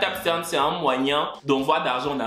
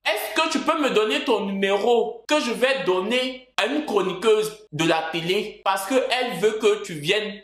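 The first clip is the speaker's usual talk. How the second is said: slow, deliberate mock message voice; measured, drawn-out imitation of a texter; imitated message sender; 3 semitones higher, slower than usual. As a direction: read it out slowly, as the sender. Acts out a message he received.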